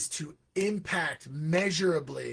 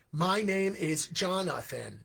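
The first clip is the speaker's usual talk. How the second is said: slow, overly formal "My name is Jonathan."; stiff formal introduction; slower than usual. Retold or imitated. Learner introduces himself with textbook stiffness, slow. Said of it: "Why are you speaking like that".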